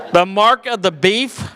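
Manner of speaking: incredulous echo. Real, not acted.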